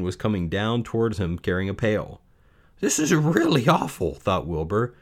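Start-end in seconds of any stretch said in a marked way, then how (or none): 2.8-4.1 high, distressed piglet voice; acted near-tears complaint; upset little pig. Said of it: "He began to cry".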